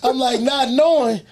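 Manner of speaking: laughing while telling it. Real, not acted. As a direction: laugh through the words. Laughing at the scammer.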